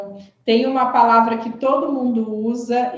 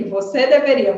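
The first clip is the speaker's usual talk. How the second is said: finger-pointing command; 2 semitones higher, 4 dB louder than usual. Shown as a demonstration. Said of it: "foi até com o dedo automaticamente".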